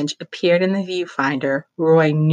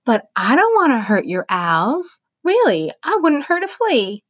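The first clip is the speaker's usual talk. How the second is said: much higher, pleading lady; 10 semitones higher, 3 dB louder than usual. A narrator's reading. Mother Paula pleading with the protesters, much higher. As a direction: beg them to believe her. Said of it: "Mother Paula pleaded".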